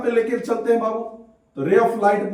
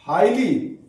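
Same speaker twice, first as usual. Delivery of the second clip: measured repeat with a gap between words; slow dictation; 4 semitones lower than usual. Real, not acted. Teacher repeating the answer for students, measured dictation. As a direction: repeat it slowly for note-takers.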